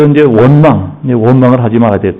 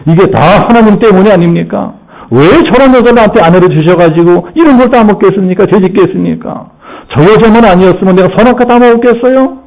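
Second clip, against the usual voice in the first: higher, whining complaint to God; blaming God; 5 semitones higher than usual. Acted. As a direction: whine and shift the blame upward. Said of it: "하나님을 원망합니다". (하나님께 따지듯 원망하는 말투)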